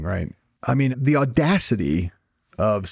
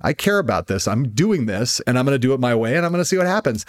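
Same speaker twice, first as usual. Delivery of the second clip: mock defiant, rising on the last line; defiant attitude; 3 semitones higher than usual. Host voicing the guest's attitude toward doubters, defiant. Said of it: "your attitude was, which is like".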